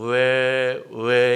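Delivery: loud, bellowing cow lowing call. Retelling how cows at a ranch fence cried: imitating a cow lowing. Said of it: "소 울음소리 성대모사".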